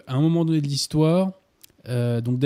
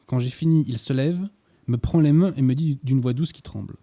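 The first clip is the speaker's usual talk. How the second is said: literary reading aloud. Acted. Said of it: "Vous me permettez que je fasse une petite citation".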